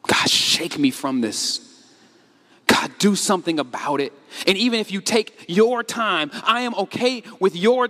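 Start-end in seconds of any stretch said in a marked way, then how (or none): 0.1-4.1 crying out to God. Acted. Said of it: "you have not once said".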